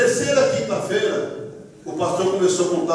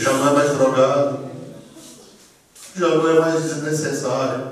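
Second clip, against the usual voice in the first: fatherly pronouncement; 6 semitones lower than usual. Retold or imitated. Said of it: "o pastor olha pra mim e diz assim".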